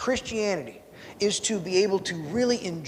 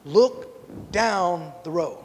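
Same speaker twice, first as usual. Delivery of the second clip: grandfather advice; much slower than usual. Retold or imitated. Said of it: "He looks at me and he goes".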